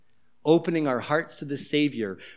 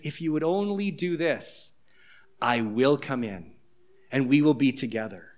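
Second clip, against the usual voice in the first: hushed, tender and lower; gentle promise; 4 semitones lower, 4 dB quieter than usual. Acted. Pastor voicing Jesus inviting believers in, softly and tenderly. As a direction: coax them softly to come close.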